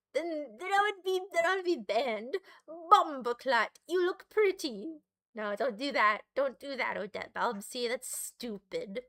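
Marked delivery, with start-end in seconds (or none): 2.7-5.0 lightly put-on Jamaican accent, slow first word; mock Jamaican accent. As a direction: try out a jokey Jamaican accent. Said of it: "Or a Jamaican one?".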